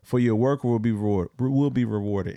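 scripture reading. Real, not acted. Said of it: "you should read that again".

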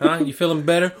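lightly imitated false concern; mock sarcastic. Old coworker to late Kevin, imitated sarcasm. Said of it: "basically what it is is sarcastic".

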